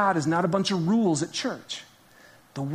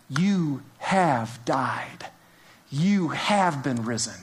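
slow emphasis; 3 semitones lower, much slower than usual. Acted. Slow emphatic scripture recall.

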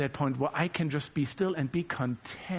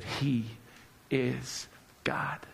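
soft breathy whisper on "is God"; 6 semitones lower, 5 dB quieter, much slower than usual. Real, not acted. Pastor ending on God's gentle whisper, whispered. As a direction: let it fall to a hushed whisper.

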